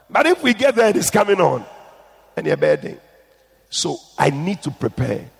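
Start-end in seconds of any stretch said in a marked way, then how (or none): 0.1-3.0 emphatic. Retold or imitated. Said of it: "I always tell them".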